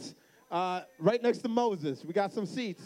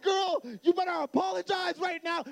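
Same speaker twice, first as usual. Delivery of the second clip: high, raised-voice mock telling-off; scolding dad; 10 semitones higher than usual. Dad orders daughter to apologize, retold scolding. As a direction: act out an exasperated father demanding an apology.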